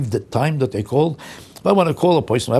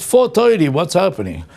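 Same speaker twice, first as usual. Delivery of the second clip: higher, cheery time-stamp hello; mock street greeting; 4 semitones higher than usual. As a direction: absurd casual greeting. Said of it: "meet a guy on the street".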